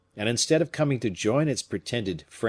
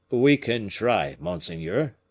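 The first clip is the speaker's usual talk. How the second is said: timid; slower than usual. Acted. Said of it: "said the man timidly".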